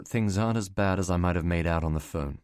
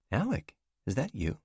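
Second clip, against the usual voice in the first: woman's voice; 5 semitones higher than usual. Acted. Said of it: "female character on phone".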